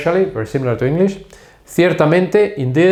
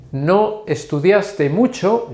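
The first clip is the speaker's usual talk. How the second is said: half-speed and higher, word by word; slow model sentence; 6 semitones higher, much slower than usual. Shown as a demonstration. Teacher gives a cause and effect example, very slowly. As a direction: stretch the example out for learners.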